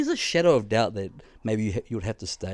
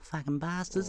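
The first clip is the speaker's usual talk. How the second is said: imitated muttered curse, softer; softer, slightly raised mock grumble; OG Māori lady; 5 semitones higher, 6 dB quieter than usual. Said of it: "that's how she talks".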